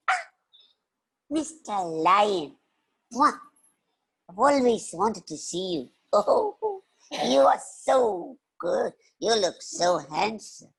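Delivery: put-on slow, gushing child's praise; admiring little girl. Little girl flattering the lion, admiring. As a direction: coo with delight at a hero.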